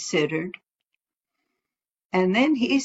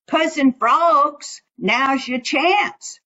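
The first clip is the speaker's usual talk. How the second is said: calling out; 6 semitones higher than usual. Acted. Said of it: "Brer Rabbit called out".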